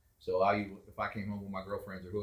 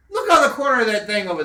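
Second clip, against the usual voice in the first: louder, higher pointing out; urgent telling; 11 semitones higher, 11 dB louder than usual. Retold or imitated. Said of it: "and I said".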